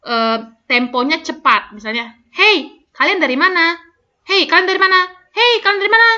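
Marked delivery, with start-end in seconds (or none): 2.3-6.1 fast repeated line. Shown as a demonstration. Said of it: "tetap harus kedengaran jelas".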